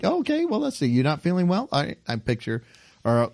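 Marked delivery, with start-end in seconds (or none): 0.0-1.7 lightly put-on high homely nurse voice; Aunt Bee doctoring. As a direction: check on the patient like a folksy aunt. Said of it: "they'll do different things like".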